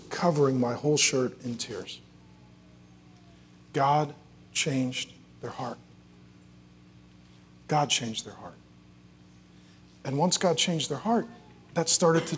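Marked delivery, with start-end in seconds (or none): 3.7-5.8 slow, separated words, softened; solemn emphasis. Real, not acted. Preacher telling how the child changed, solemn and slow. Climax stated, then repeated softer. 7.7-8.5 low, soft, connected phrase; quiet, awed echo of a key line; hushed reverence. Real, not acted. Preacher dwelling on the child's change, hushed reverence. Climax repeated more softly.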